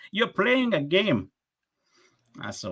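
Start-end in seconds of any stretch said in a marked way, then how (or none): 0.1-1.3 high, very slow mock accusation; scammer voice. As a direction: stretch it out like the annoyed caller. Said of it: "I'm like".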